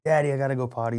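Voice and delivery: a hint of a kid waking dad; little son. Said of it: "his son".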